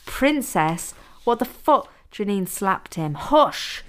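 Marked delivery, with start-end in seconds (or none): 0.1-1.9 higher, indignant disbelief. A narrator's reading. Captive objects to the nickname from his captor, indignant. 3.1-3.8 higher, sharp shouted command. A narrator's reading. Captor silences him after a slap, shouting. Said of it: "she shouted".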